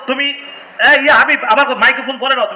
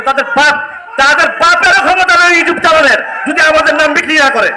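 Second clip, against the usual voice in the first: raised, higher and louder in anger; heated, louder challenge; indignant outburst; 3 semitones higher, 3 dB louder than usual. Real, not acted. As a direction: hit back at the YouTubers hard. Angry jab at YouTubers.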